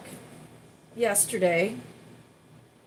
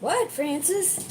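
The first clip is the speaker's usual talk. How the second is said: calling to pet; 10 semitones higher, slower than usual. Real, not acted. Talking to her pet.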